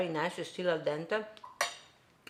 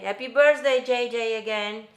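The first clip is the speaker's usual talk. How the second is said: excited birthday wish; 5 semitones higher, 8 dB louder than usual. Real, not acted. Birthday wish on live stream.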